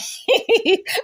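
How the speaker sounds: real high laugh after the impression. Real, not acted. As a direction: burst out laughing.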